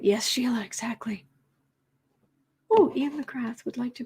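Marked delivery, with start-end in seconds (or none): 0.6-1.3 breathy whispered aside. Real, not acted.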